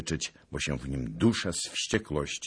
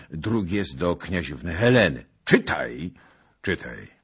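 hoarse urging; 7 dB louder than usual. Acted. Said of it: "przyciszony, chrapliwy głos".

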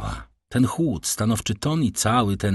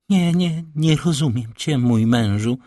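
higher, frightened wife's voice; panicked dread; 5 semitones higher than usual. A narrator's reading. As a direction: plead in a fit of fear. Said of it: "zerwała się w paroksyzmie trwogi". (głos pełen trwogi)

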